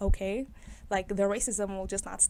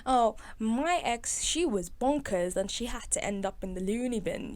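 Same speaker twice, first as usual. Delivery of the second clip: lightly voiced friend. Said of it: "let me try it in his voice".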